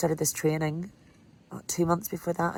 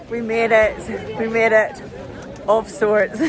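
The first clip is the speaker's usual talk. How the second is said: breathless elation; 5 semitones higher, 7 dB louder, slower than usual. Real, not acted. Reaching the town after huge climb.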